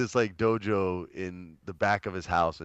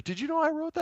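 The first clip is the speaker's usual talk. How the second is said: retold question; faster than usual. Retold writer's surprise question.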